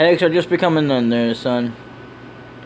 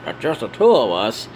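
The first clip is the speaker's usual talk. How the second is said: questioning reply; 2 semitones lower than usual. Acted. Low reply to high invitation.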